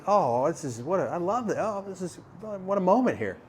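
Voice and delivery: high, soft gushing; mock-moved gushing. To a man crying at the summit, gently gushing.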